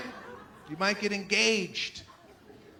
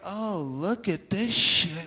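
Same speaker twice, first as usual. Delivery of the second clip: disgusted muttering; 2 semitones lower, much slower than usual. Retold or imitated. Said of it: "you're like".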